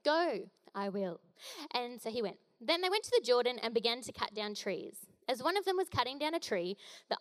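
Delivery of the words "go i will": slow, clipped summary; terse. Shown as a demonstration. Preacher summing up Elisha's terse reply, slowly. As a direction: drawl the few words out.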